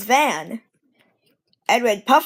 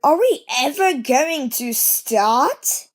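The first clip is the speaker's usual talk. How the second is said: cross impatience; 3 semitones higher, slower than usual. Acted. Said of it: "Edward began to get cross".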